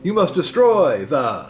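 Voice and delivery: slow, commanding wizard; thundering Oz. A narrator's reading. Oz giving Dorothy her task, slow and commanding. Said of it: "thundered Oz".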